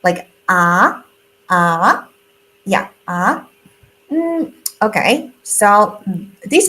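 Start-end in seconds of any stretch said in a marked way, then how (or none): 1.5-3.5 "ah" rising up like a question; rising second tone. Shown as a demonstration. Teacher demonstrating a rising "ah" tone. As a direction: glide "ah" upward, Mandarin second tone. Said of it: "So that would be ah, like, ah".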